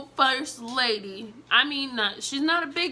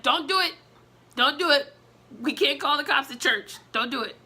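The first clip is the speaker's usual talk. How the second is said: higher, louder urgent pleading; urgent restraint; 4 semitones higher, 3 dB louder than usual. Retold or imitated. First lady stopping her swinging at him, urgent and high. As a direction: hold her back, half laughing. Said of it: "And she's like".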